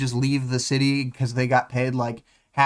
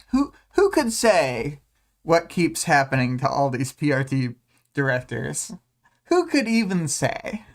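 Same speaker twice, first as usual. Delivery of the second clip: mock innocent. Mock innocent question about murders.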